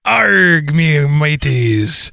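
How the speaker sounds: pirate voice. Acted. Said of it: "Talk Like a Pirate Day".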